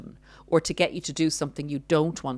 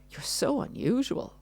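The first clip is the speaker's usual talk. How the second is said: much higher, softer, sugary fake compliment; mock sweet narcissist; 9 semitones higher, 4 dB quieter than usual. Narcissist disguising an insult, high sugary mock praise. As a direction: coo it like a backhanded compliment. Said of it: "criticism wrapped up in wrapping paper".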